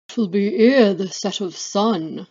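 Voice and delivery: ominous crone voice; third witch. Acted. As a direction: pronounce it like a hag foretelling. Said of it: "introduce you to the three witches".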